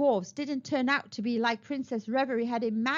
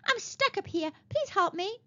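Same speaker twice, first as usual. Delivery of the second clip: higher, theatrical plea for help; mock pleading; 9 semitones higher than usual. A narrator's reading. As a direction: play the damsel in distress. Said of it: "she began to shout".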